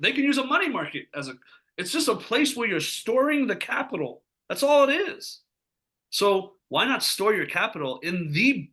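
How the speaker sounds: genuinely worked up, voice rising; fired up. Real, not acted. Sales coach telling agents about storing capital, getting fired up. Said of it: "I'm getting, like, fired up about this".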